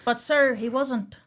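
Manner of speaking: lightly voiced pleading inmate; Heywood impression. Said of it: "can I be Hay for a minute".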